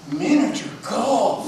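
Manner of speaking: slow, laughing mock amazement; gasp, then laugh the words out; gasping amused laugh. Tiger laughing at rabbit's odd list, gasping.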